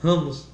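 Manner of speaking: "ramos" with a throaty h in place of the v. Shown as a demonstration. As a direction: say "ramos", breathy h onset instead of v. ("ramos" com h aspirado no lugar do v)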